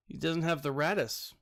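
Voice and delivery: mock sympathy, lightly done; mildly sarcastic commiseration. Real, not acted. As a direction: feign pity, breaking off into a laugh. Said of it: "I'm being sarcastic".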